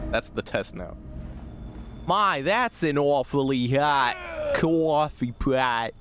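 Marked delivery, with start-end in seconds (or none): 2.1-5.9 slow, stretched New York accent. Shown as a demonstration. Streamer taking the New York accent test. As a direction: drag out "coffee pot" the New York way. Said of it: "how New York can I actually say that".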